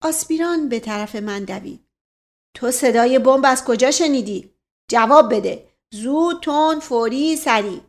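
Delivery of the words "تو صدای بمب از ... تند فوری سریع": loud, rapid-fire demands for an answer; pressing interrogation. Acted. Aspiran pressing the boy to answer, loud. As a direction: bark the questions, hurry him up.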